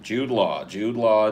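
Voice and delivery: excited. Real, not acted. Chat guesses his man crush.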